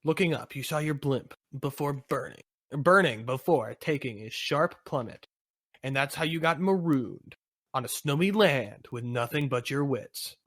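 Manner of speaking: measured storyteller's close; story narration. Acted. Narrator wrapping up the crash scene, story narration. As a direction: narrate the hero's stranding.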